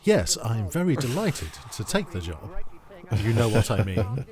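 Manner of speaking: lightly put-on posh radio voice; a hint of a posh, proper gentleman. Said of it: "Someone doing a posh voice".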